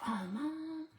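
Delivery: embarrassed son voice. Retold or imitated. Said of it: "he'll be like".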